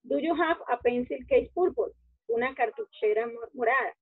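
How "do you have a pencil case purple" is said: como lo diría un hispanohablante, "pencil case purple"; orden equivocado. Shown as a demonstration. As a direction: ejemplo del error, dicho con calma. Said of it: "Digamos, nosotros pusiéramos". (el orden mal, "pencil case purple")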